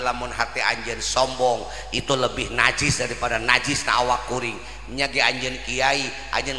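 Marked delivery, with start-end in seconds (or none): none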